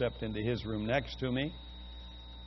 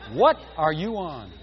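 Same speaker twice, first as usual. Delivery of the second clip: laughing while quoting; 4 semitones higher, 8 dB louder than usual. Retold or imitated. Preacher laughing, repeating the interpreter's question. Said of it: "That's exactly what he said".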